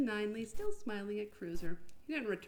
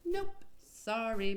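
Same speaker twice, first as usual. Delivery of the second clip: chirpy refusal; much slower than usual. Acted. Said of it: "Miss Frost countered".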